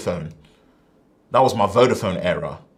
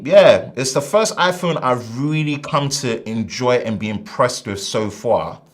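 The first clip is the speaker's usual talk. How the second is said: New York Italian accent. Real, not acted. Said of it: "My New York Italian accent came in".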